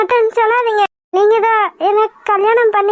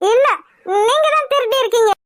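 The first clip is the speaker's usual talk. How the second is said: tearful accusation; 3 semitones higher, faster than usual. Acted. Girl accuses him, tearful.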